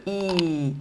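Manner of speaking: long held "I", falling at the end; prolongation. Shown as a demonstration. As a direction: stretch out the vowel "I". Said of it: "les lettres prolongation". (« I » longuement prolongé)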